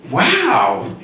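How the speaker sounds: put-on a high, slow, wide-eyed little girl's wow; child amazed. Daughter amazed to hear about the needle, high and slow. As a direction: marvel at it the way a small child would.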